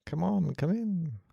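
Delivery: high-pitched welcoming act; welcoming hobbit. Acted. Acting Bilbo welcoming Gandalf.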